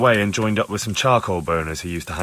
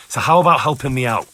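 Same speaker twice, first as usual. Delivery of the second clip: pushy and louder, losing patience; heated demand; 5 dB louder than usual. Acted. Investigator losing his temper with the charcoal burner, louder. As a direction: press him hard, temper rising. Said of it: "Calm down, lad".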